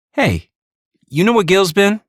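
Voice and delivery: put-on heavy New York accent, high and loud. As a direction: tough New York street voice. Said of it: "inserting a heavy New York accent into her tone".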